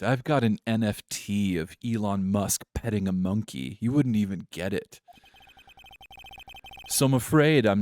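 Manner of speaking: lightly voiced posh British snob; a hint of condescending, poorly faked posh British. Boastful CEO talking down to a lawyer, posh British. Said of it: "I think this is the voice".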